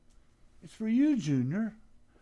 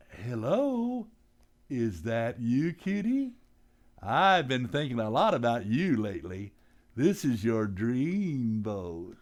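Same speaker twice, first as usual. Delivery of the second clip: smooth romantic phone voice; 5 semitones lower than usual. Acted. Pop sweet-talks on phone, romancing.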